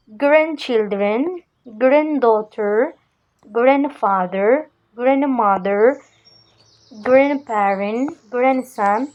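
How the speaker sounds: "Grandchildren" to "grandson", each linked smoothly without the middle d; supple, silent D. Shown as a demonstration. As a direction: model each "grand" word like "granddaughter", gliding over the d. (« Grandchildren » et les mots suivants, souples, sans le d central)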